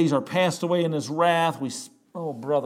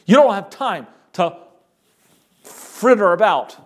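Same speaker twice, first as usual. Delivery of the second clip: pressing, raised-voice urging; urgent warning; 3 semitones higher than usual. Acted. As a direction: press them urgently to escape. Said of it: "in that urgency".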